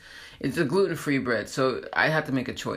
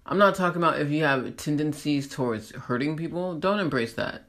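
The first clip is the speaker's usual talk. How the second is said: ordinary talk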